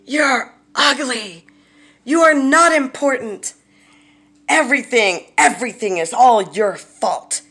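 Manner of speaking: loud, high-pitched berating tirade; furious acted shout, punching key words; screaming in their face. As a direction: hurl each insult at full force. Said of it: "screaming into their face".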